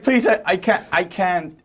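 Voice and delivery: begging high and breathless; high pleading. Acted. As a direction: plead for mercy, voice climbing. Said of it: "He's like".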